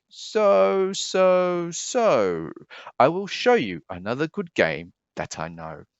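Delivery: a grinning guest who won't budge; stubborn cat. Acted. Cat refusing the fish's order to leave, high and cheeky.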